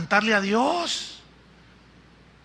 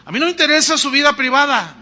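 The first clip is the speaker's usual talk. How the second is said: mimicking worldly fans; 6 semitones higher, 5 dB louder, much faster than usual. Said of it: "dicen los del mundo".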